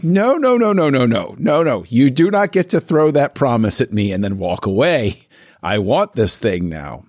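a fan's hammed-up outrage fading down; mock protest. Mock fan protest at the studio.

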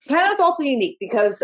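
talking while chewing; mouth full. Real, not acted. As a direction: speak through a mouthful. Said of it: "and I'm chewing".

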